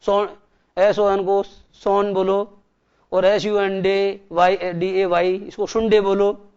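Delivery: letters spelled slowly one by one; slow spelling out. Shown as a demonstration. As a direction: spell it out slowly to prove the point. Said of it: "मुझे ये भी बताओ".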